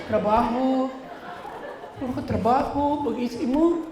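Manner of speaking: soft, whiny mock wife; clingy wife. Wife sulking to her working husband, soft and whiny. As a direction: coo and sulk like a neglected wife. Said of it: "Yung mga babae, ganyan din yan".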